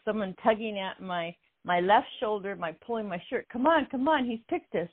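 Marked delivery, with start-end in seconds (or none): 3.5-4.9 put-on Russian accent. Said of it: "in a Russian accent".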